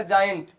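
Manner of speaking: जायंट opening on a J sound; soft G. Shown as a demonstration. Teacher modelling G before I, जायंट with a J sound. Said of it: "तो ये बनेगा".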